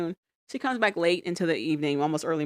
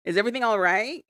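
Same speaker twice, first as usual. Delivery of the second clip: retold worried check-in, higher pitched; freaked-out concern; 4 semitones higher than usual. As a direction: ask higher, mildly alarmed. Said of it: "starts to freak her out".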